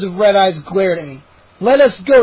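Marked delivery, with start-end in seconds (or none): 1.6-2.2 demand. A narrator's reading. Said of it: "I demanded".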